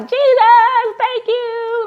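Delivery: high, ringing cry of thanks; overjoyed thanks. Retold or imitated. Mother thanking Jesus after strangers gave money, high joyful cry. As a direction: burst out in thrilled gratitude.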